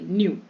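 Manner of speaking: न्यू with a brief "n" into "yu"; quick n at the start of न्यू; short N. Shown as a demonstration. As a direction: say न्यू without lingering on the n. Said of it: "एन को short बोलेंगे".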